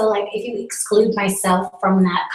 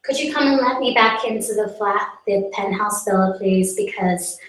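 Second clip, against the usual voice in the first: lightly acted voice reading a friend's text. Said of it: "she's just texted me".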